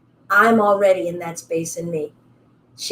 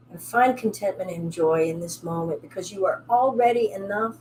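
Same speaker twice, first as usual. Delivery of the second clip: soft, calm teacher voice guiding the class; guided yoga cool-down; 5 dB quieter than usual. Acted. Yoga teacher guiding students through a calm close, softly. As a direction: ease them into stillness.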